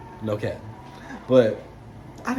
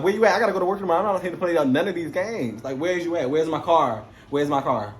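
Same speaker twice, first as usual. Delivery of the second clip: retold phone yelling; 4 semitones higher than usual. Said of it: "I'm on the phone doing all that".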